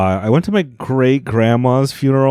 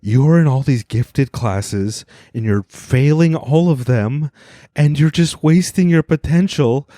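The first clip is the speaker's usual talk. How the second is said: tearful counselor; 6 semitones higher, slower than usual. Retold or imitated. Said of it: "break down in tears".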